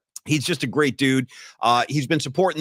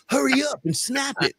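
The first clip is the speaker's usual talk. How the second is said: mock impatient Bobby; 9 semitones higher than usual. Bobby voiced again, higher.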